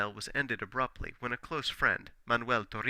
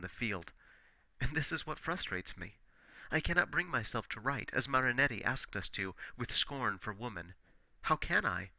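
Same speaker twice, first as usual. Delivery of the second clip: put-on impassioned young poet. Vilcas confiding in a friend about his love, impassioned. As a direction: pour out his love but keep it restrained. Reads Vilcas's letter with feeling.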